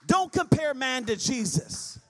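drawn-out, deliberate warning; slow, leaning on each word; slow emphatic. Acted. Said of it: "slow emphatic".

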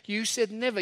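never given firm weight; stress on never. Shown as a demonstration. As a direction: land firmly on never. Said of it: "this is a permanent thing".

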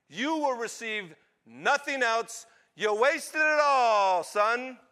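slow, high, loud tirade; angry father. Acted. Father denying his son any inheritance, furious. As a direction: thunder each phrase out slowly.

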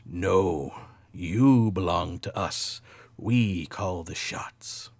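slow, crackly drive-through robot; weird robot voice. Retold or imitated. Robot laying claim to the trapped sleeper, slow menacing drone. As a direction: drone it slowly like a garbled machine. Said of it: "this weird robot voice, like somebody's working at, like, some crappy drive-through".

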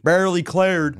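Chicago accent, leaning into barely. Shown as a demonstration. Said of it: "There's my Chicago accent".

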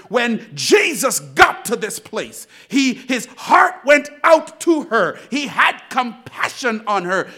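loud, forceful preaching; vaaz coşkusu. Acted. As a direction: preach it out to the congregation, punching key words.

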